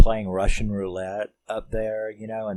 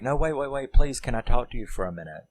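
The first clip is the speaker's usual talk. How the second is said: urgent pleading; 4 semitones higher, faster than usual. Retold or imitated. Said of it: "running after him".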